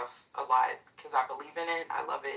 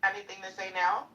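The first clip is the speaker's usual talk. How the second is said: taunting challenge; 3 semitones higher, 3 dB louder than usual. Real, not acted. Pressing the heckler for answer.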